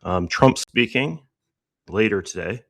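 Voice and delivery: breathless, words between gasps; catching breath while talking. Real, not acted. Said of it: "Sorry, I'm out of breath".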